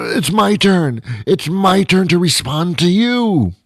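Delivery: high-pitched exasperated rant; worked-up frustration. Acted. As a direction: plead in rising, flustered protest. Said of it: "I'm getting all upset".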